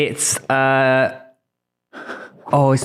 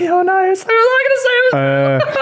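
laughing. Real, not acted. Laughing while trying to answer.

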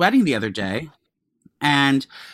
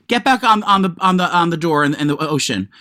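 mock Boston accent. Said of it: "this fucking Boston accent".

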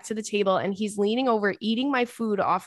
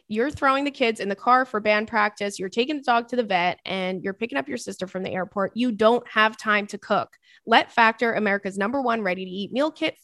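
upbeat sponsor read. Acted. Reading the Factor sponsor spot to listeners, upbeat ad read. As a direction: sell it like a radio spot.

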